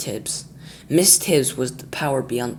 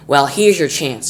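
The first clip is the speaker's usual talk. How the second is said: snarling; 7 dB louder, slower than usual. Acted. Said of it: "snarled Missus Tibbs".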